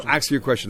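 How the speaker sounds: "ask" said as "ax", k before s; broken English. Retold or imitated. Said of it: "speak a broken English".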